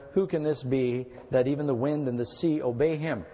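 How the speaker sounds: measured Bible reading to the congregation; scripture reading. Acted. Reads scripture aloud.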